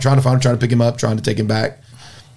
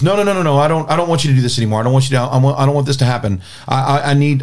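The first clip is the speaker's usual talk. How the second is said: agitated pleading; 3 semitones higher, faster than usual. Retold or imitated. Bear panics, refuses prayer.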